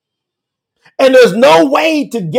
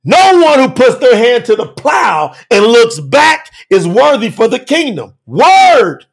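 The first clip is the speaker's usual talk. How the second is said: preaching shout. Real, not acted. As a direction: drive the warning home to the crowd. Preacher exhorting at full force.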